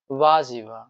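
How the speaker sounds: loud cheeky praise. Shown as a demonstration. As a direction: call it out as a cheeky boy. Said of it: "इसको याद रखेंगे". (ज़ोर से शरारती अंदाज़ में "वाह जी वाह")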